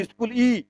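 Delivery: स्कूल ई said as iskul i, imitating students; a student's mistaken reading; mock student mistake. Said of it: "आप बोलते हैं क्या इसको स्कूल".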